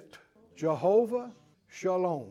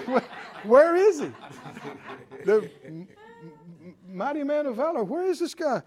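incredulous; 6 semitones higher than usual. Acted. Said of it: "Gideon did this. He went".

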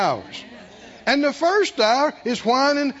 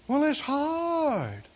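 slow, softer self-pitying sigh of a line; whiny complaint; 4 semitones higher, 5 dB quieter, much slower than usual. Retold or imitated. A discouraged believer complaining to the pastor, slow and whiny. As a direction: drag it out, feeling sorry for yourself. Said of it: "in the tone of the voice".

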